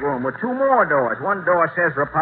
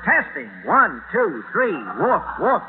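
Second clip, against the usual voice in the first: mic test. Acted. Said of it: "test your trumpet".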